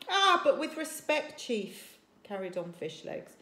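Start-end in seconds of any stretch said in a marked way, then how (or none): 0.1-2.0 put-on eager boy. A narrator's reading. Fishlegs objects to chief.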